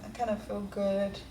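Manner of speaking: usual speaking voice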